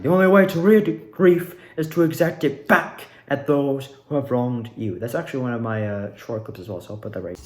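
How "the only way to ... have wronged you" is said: a little raised villain line; lightly voiced cult leader, held back; muted Delora voice. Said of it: "not doing the full-fledged voice".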